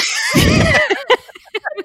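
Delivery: big shrieking laugh after the joke; loud burst of laughter. Real, not acted. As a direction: burst out laughing loudly, high. Laughs after her accent attempt.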